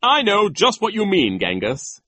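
high, loud approval; pompous delight; gleeful vice principal. Acted. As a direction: applaud it with relish. Voices Nero agreeing.

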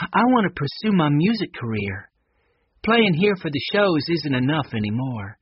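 a hint of character, confiding an ambition; slightly lifted, earnest character voice; wistful Connie.

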